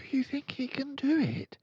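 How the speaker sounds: put-on high whisper of a girl. A narrator's reading. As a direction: breathe it to your friend, fascinated. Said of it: "she whispered to Lavender".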